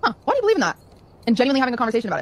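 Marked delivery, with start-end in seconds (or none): 0.0-0.8 curious gentle demo. Shown as a demonstration. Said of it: "compared to saying".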